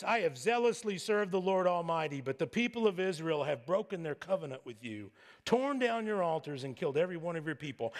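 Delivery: a touch of whine in a recited grievance; mild whiny complaint. Acted. Elijah listing his grievances to God, mild whiny complaint. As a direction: complain with a light mock whine. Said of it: "replied in his whiny voice".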